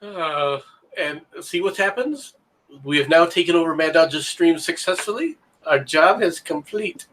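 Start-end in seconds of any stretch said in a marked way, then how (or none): 2.8-7.1 measured, mock German announcement; German accent. Co-host announces he has taken over a stream, German accent. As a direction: put on a light German accent. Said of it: "I thought you were doing a German accent".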